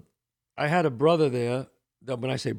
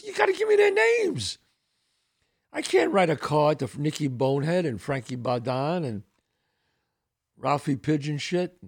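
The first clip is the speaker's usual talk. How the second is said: exasperated wife. Retold or imitated. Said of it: "she goes".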